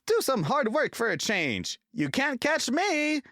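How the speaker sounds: high, loud teasing, slowing on the last words; little engine mocking a tired big engine; cheeky taunt. A narrator's reading. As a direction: taunt him and run off. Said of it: "And off he ran, laughing".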